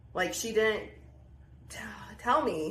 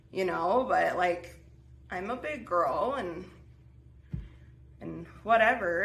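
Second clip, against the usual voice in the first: replaying how she pleaded with her mom, pitched up; exasperated pleading; 3 semitones higher than usual. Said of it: "and I was just like".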